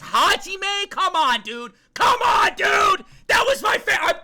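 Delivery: high, loud tearful pleading; crying shout. Real, not acted. Streamer pleading with his dead favorite, crying and shouting. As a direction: beg through tears, voice cracking.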